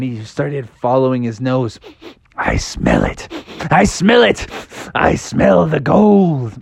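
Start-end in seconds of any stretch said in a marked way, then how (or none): 2.4-6.5 sniffing bear voice. Acted.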